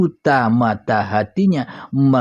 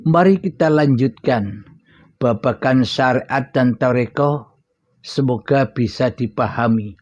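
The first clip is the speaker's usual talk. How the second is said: talking while smoking a cigarette; cigarette in mouth. Real, not acted. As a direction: speak around a cigarette in mouth. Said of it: "Maaf sambil ngerokok".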